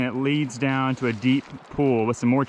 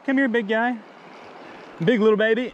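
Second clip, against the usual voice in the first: cooing at fish; 7 semitones higher than usual. Real, not acted. Angler cooing high to a tiny fish he just landed.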